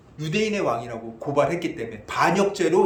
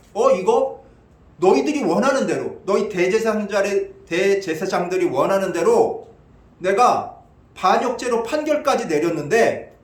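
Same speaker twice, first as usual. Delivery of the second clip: raised, louder protest, mildly acted; aggrieved Pilate; 2 semitones higher, 4 dB louder than usual. Pilate complaining to the chief priests he obliged, aggrieved. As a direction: voice an exasperated governor's complaint.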